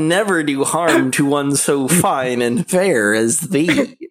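woo her with hammy gallantry; nasal smug neckbeard. Pretend. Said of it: "Where it's just like".

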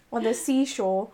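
rereading with a laugh. Real, not acted. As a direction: chuckle through the correction. Reader laughs at own slip.

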